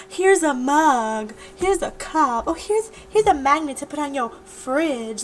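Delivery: drawn-out, hammed-up gift presenting; mock gift presenting. Vlogger imagining handing out alternative gifts, mock presenting.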